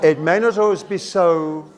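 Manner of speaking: "so" left hanging before a pause; semicolon pause. Shown as a demonstration. Teacher reads the line to show a semicolon, "so" left hanging. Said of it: "It's for a little break".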